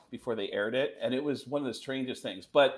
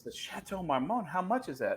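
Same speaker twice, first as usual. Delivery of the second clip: Imitating a singer; 6 semitones higher than usual. Retold or imitated. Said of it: "And she goes".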